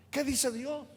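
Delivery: asked softly, almost hushed; quiet question. Acted. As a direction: lean in and ask it quietly. Predicador pregunta suave a la congregación. (pregunta suave, casi en voz baja)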